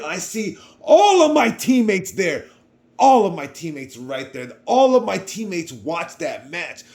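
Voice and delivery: high, loud, laughing rush of joy; excited. Real, not acted. Telling how the whole team watched, overjoyed and laughing. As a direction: let the joy burst out with a laugh. Seeing teammates cheering for him.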